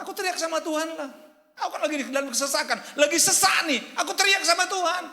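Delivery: high, loud cry building to a full shout; shouting to God. Acted. Preacher voices David in distress shouting to God, high and building. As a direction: shout it out as David under pressure. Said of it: "Daud itu katakan".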